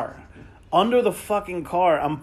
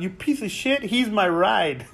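mock yelling; 3 semitones higher, slower than usual. The speaker yelling at the driver, laughing mock outrage. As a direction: yell it while cracking up. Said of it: "Kabir's yelling at him".

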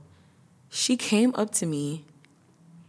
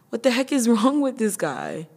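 higher and louder, baffled outrage; outraged disbelief; 6 semitones higher, 4 dB louder than usual. Real, not acted. Telling friends about the guy, outraged disbelief. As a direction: throw the question out in disbelief.

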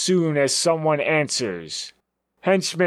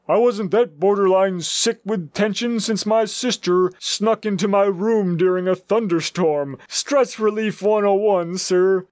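higher, giddy henchman voice; 4 semitones higher than usual. Acted. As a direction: babble like a giddy sidekick. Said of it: "laughing with the rest hysterically".

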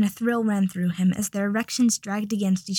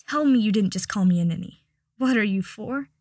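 mock outrage. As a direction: fake offence, teasing. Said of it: "Draco mock gasped".

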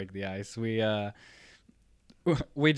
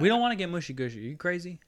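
mock alarm; 9 semitones higher, 7 dB louder, faster than usual. Real, not acted. Cutting off mushy story.

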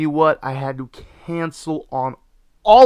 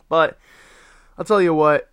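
ordinary delivery

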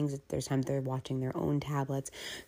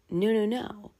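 emphatic denial; 6 semitones higher, 5 dB louder than usual. Real, not acted. Sudden realization.

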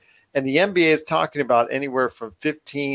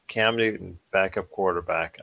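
incredulous; 6 semitones lower, 4 dB quieter than usual. Real, not acted. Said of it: "hard to say that really with a straight face".

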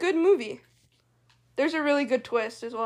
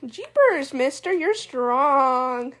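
put-on wholesome 1950s kid; much slower than usual. Old-timey kid exclamation bit.

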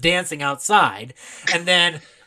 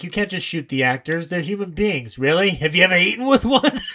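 mock disdain; 3 semitones higher than usual. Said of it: "the joke about".

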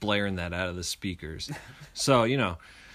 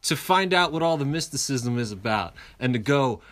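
silly clown; 6 semitones higher, 5 dB louder than usual. Retold or imitated. Drunk self rallying friends.

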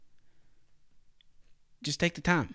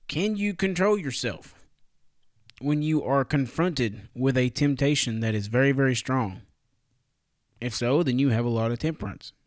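infomercial voice. Pretend. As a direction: sell it like a late-night infomercial. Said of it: "that sounded like a strong infomercial from the nineties".

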